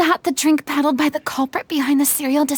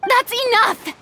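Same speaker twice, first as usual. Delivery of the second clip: sharp command; 9 semitones higher than usual. Acted. Breaking up the quarrel.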